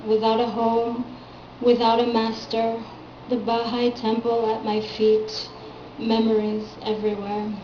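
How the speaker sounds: measured recital in short separate phrases; poetry reading. Acted. Poet reading an early poem of hers aloud, poetry reading. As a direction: let each image stand alone, pausing between. Reads own poem to audience.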